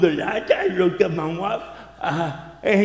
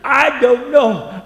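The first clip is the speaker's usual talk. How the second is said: high, loud, helpless wife voice; the wife wailing that she doesn't know; imitating whiny wife; 7 semitones higher, 6 dB louder than usual. Wife's answer acted again.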